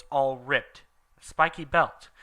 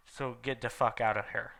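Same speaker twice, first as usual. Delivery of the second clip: whisper; 6 dB quieter than usual. Acted.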